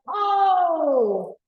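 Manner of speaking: high, drawn-out polite unease; hint discomfort without saying it; indirect hinting. Acted. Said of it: "He's not being very direct".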